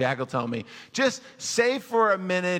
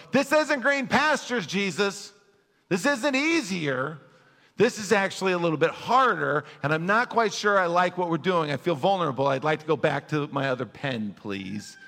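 mock complaint. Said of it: "you go".

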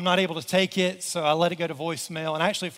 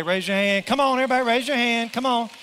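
higher-pitched rallying call to a crowd; rousing call; 4 semitones higher, 4 dB louder than usual. Real, not acted. Pastor urging congregation to raise hands, rousing. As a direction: urge the room to join in.

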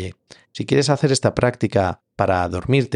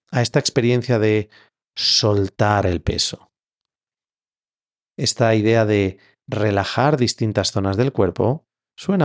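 measured meditation guidance with long pauses; guided meditation. Acted. Yoga teacher leading listeners into Yoga Nidra, guided meditation. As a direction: guide them gently into rest, leaving space between phrases.

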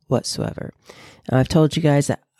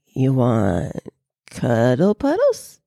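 coaxing pet talk; 2 semitones lower, slower than usual. Acted. Coaxing her puppy.

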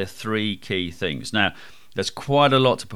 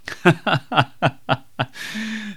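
laugh; 11 semitones higher than usual. Real, not acted. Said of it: "laughs after monotone parody".

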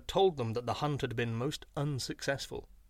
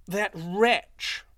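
higher, louder mock-indignant jackal; sly yippy jackal; 6 semitones higher, 6 dB louder than usual. A narrator's reading. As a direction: fake outrage at the wife. Jackal blames his wife.

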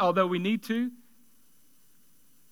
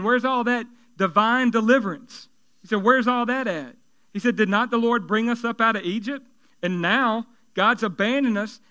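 with attitude. Retold or imitated. Preacher voicing Gideon's indignant complaint to the angel, with attitude. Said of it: "read it with a little bit of attitude".

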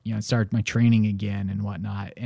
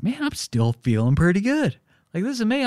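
elated runner; 9 semitones higher than usual. Retold or imitated. Feeling great at mile seventeen.

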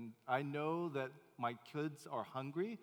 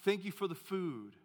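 put-on higher, louder eager boy praying; lightly voiced boy's hearty prayer; mock child's prayer; 3 semitones higher, 5 dB louder than usual. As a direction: pray it like a proud little kid. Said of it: "He said".

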